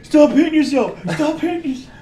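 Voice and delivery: high, loud mocking taunt. Vampire taunts the woman beaten with her own arm, loud mocking. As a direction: taunt the weak victim like a bully.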